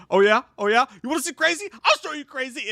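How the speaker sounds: high-pitched mock drunken dare; pushed-up voice of a boastful drunk; drunk dude. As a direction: imitate a drunk guy talking himself up. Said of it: "just drunk".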